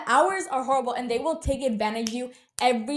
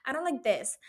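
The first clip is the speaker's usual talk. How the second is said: lightly mocked picky customer; entitled customer; 4 semitones higher, 3 dB quieter than usual. Imitating customers at a food place, mock complaining. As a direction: imitate a fussy complainer, slightly higher pitched. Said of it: "why people are so entitled to".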